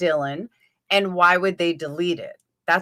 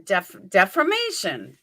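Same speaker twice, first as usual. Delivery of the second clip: New York accent. Shown as a demonstration. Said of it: "That's how I say it".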